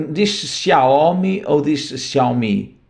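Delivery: Xiaomi said two ways, very slowly; student's question. Retold or imitated. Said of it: "perguntam-me". (as duas pronúncias de Xiaomi, devagar)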